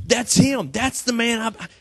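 high, loud eager cry; excited recognition. Retold or imitated. John spotting Jesus and telling everyone, high and loud. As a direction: point and shout, that's the one. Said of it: "Jesus shows up and he goes".

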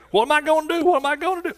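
high, anxious cry of a frightened believer, asked twice; worried panic. Retold or imitated. Preacher voicing a worried churchgoer, high and anxious. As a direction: mimic a panicked listener asking what to do next.

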